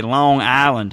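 "Long Island" as two separate words, no hard G between; plainly separated "Long Island"; Missouri pronunciation. Shown as a demonstration. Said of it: "that's how they'd say it here".

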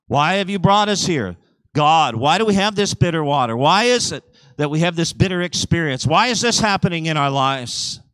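mock complaint, pitch lifting on each question; complaining. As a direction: plead and grumble like the aggrieved people. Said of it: "They complained".

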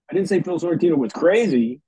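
"crazy" punched at the end; stress on crazy. Shown as a demonstration. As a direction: lean on the word "crazy". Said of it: "Each sentence meant something different".

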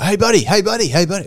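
high-pitched pestering call across a distance; mock yelling. Crackhead calling to him from afar, high mock yell. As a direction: imitate someone hollering for attention. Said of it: "he started yelling out to me".

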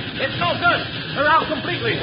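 high, loud, frantic report; desperate alarm. Acted. Timber boss reports the brakes are gone, desperate. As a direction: shout it in desperate panic.

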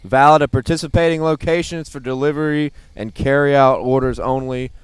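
quick ad disclaimer read; fast legal disclaimer. Pretend. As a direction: rattle off the fine print. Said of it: "the fine print guy knows it".

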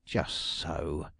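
low, quick agreeing "Just so"; the detective humoring her; soothing exclamation. Acted. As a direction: agree at once to calm her. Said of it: "exclaimed Mister Gryce".

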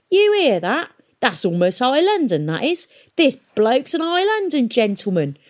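high, excited announcement; impressed exclamation. A narrator's reading. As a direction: show off the discovery to the gang. Pirate announcing marvel to companions.

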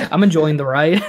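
tipsy slurring words; slurred. Real, not acted. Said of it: "You slurred there a bit".

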